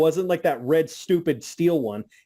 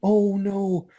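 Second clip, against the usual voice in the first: mocking commentators; 4 semitones higher than usual. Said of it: "you hear the commentary go".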